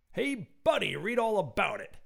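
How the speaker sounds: high, loud newsboy call; street urchin. Acted. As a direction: hawk the paper like a cheeky urchin. Street urchin hawking flyers.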